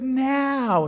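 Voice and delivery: loud, high, drawn-out divine command; the Lord. Retold or imitated. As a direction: belt out a long, insistent NOW. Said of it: "The Lord said".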